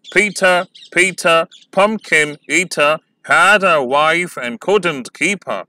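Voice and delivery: very slow, trochaic chant of the whole rhyme; teacher reciting the rhyme slowly; slow recitation. Shown as a demonstration. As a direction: read it slowly to show the rhythm. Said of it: "थोड़ा slowly pronounce करना होता है".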